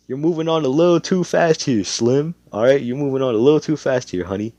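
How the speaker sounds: lightly voiced protesting dad; dad reining in. Dad reins in his wife.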